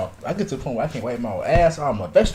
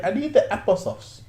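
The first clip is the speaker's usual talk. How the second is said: higher, badly faked Russian accent; half-hearted mock Russian accent, pitched up; old lady Russian accent; 4 semitones higher, 3 dB quieter than usual. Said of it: "old lady Russian accent".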